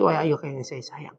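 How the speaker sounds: slow, tender address to father; Ibrahim. Retold or imitated. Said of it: "Ibrahim tetap berkata".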